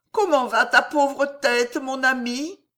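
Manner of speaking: high-pitched, fussing concern for a friend; solicitous duke. A narrator's reading. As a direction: ask after the injury in a high voice. Duke asks hurt favourite. (duc plein de sollicitude, voix aiguë)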